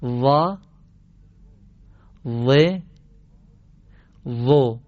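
«وا، و، و» with a heavy, throaty tongue-tip z; heavy zaa drill. Shown as a demonstration. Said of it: "گوش بدید". (تلفظ درشت و پرگلو «وا، و، و»)

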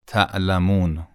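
"تعلمون" with a hard glottal catch after ت; hamza. Shown as a demonstration. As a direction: cut the sound off sharply inside "تعلمون". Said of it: "تعلمون با همزه". («تعلمون» با همزه، صدا قطع و حبس)

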